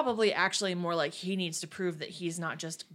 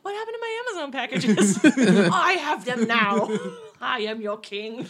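roaring tyrant king; 4 semitones higher, 9 dB louder than usual. Pretend. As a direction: gloat like a petty tyrant. Playing neighborhood king.

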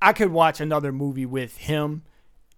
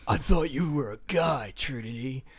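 lightly voiced, mock-clueless Neo; dopey Neo impression; 4 dB quieter than usual. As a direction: play him as a blank, dim hero. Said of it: "He's just like".

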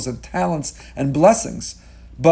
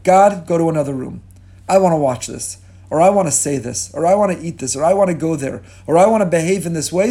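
dismissing God; 4 dB louder than usual. Retold or imitated. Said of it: "to say".

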